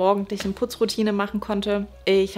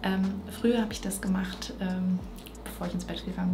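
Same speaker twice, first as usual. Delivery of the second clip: whispering over a crib; 5 dB quieter than usual. Real, not acted. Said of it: "Ich muss ein bisschen leiser sprechen".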